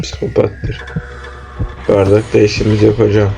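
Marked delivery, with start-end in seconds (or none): 0.0-0.8 hushed whisper. Real, not acted. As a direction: whisper so he won't hear. Hiding from the psycho teacher.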